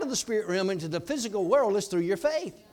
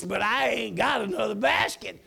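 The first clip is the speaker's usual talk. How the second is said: laughing emphasis; 2 semitones higher than usual. Shown as a demonstration. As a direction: punch "I ain't got another basket" with a laugh. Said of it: "May not be proper English".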